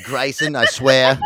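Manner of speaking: retry the bad Southern accent, breaking into laughter; botched Southern accent. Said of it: "I lost my Chrisley Southern accent".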